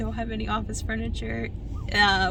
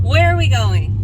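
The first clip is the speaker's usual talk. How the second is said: loud call; 3 semitones higher, 12 dB louder than usual. Real, not acted. Calling out to husband.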